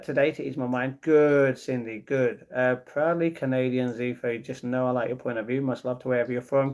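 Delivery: ordinary talk, nothing marked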